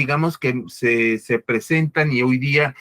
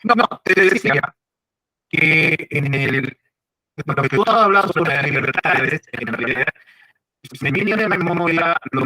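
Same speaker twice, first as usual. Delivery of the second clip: echo. Real, not acted. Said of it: "se escucha como eco".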